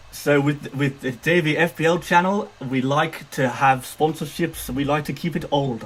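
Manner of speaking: lightly imitated YouTuber's accent; a hint of a fellow YouTuber's accent; Davey FPL accent. Streamer imitating a fellow YouTuber's channel intro, light mimicked accent. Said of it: "I was trying to do a Davey accent".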